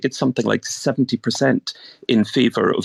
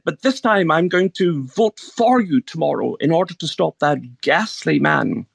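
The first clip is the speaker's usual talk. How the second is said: posh voice; 4 semitones higher than usual. Retold or imitated. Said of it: "This is my posh voice I'm putting on here".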